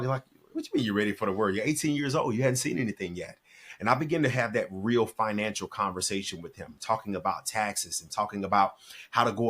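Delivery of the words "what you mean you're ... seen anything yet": retold fatherly disbelief, rising mid-way; mock-incredulous dad retelling. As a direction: question him like a doubting dad. Father challenging his son, retold.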